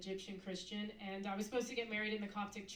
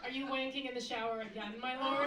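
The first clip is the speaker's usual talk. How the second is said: mock-servile question, louder on the title; sarcastic; 4 dB louder than usual. Wife questioning husband in the shower, sarcastic. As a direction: accuse him, then lift the honorific. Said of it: "it would be rife with sarcasm".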